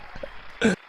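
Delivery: short voiceless laugh. Real, not acted. Co-caster reacts to his partner's wild call, laughing. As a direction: laugh briefly under the breath.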